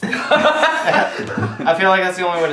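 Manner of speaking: talking through laughter; laughing. Real, not acted. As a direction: laugh while saying it. Laughing at the name.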